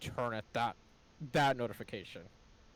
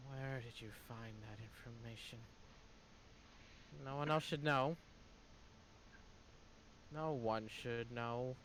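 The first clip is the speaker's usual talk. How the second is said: secretive villain voice; 4 dB quieter than usual. Acted. NPC guards secret information.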